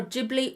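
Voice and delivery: "Ghibli" pronounced JIB-lee. Shown as a demonstration. Vlogger offering a second guess, Ghibli as JIB-lee. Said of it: "I've never heard it pronounced".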